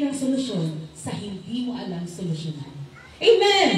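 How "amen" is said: a punchy, louder call of amen. Real, not acted. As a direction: shout it out to the congregation. Preacher calls for amen. (malakas na amen)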